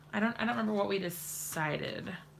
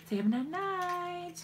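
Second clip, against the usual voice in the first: high, very slow sing-song coaxing; coaxing prompt; 9 semitones higher, much slower than usual. Real, not acted. Mother prompting her toddler to say good night, high and slow.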